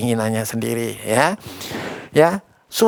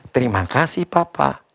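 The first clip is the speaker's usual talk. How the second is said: put-on polite child; 3 dB quieter than usual. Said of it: "kamu harus bilang apa".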